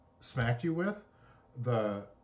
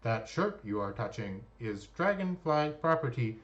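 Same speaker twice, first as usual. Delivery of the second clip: polite robot voice, lightly done. Acted. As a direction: politely recite like a security robot. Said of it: "her robotic voice chirps in and says".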